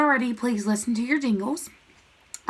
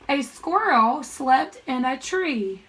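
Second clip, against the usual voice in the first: measured teacher read-aloud; slow model reading for pupils; 2 semitones higher, much slower than usual. Shown as a demonstration. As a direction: read the sentence slowly and clearly. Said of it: "I'm gonna read the sentence".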